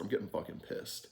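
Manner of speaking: retold whisper under the breath; whispered aside. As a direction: whisper it so only your neighbour hears. Aside to the guy beside him.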